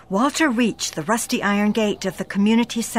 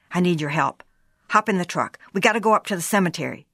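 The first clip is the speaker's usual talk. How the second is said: urgent husband; 2 semitones lower, faster than usual. Acted. Husband urging wife, low and rushed.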